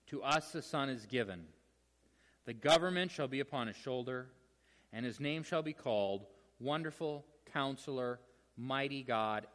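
measured Bible reading with pauses between phrases; scripture reading. Acted. Preacher reads the prophecy to the congregation, measured scripture reading. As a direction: read the verses out deliberately, phrase by phrase.

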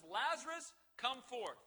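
Jesus calling Lazarus out of the grave, lightly commanding. Retold or imitated. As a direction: call him out of the tomb. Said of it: "Jesus Christ steps forward and says".

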